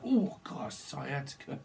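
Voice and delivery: mock groan of a sudden twinge; wincing in pain. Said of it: "someone winces".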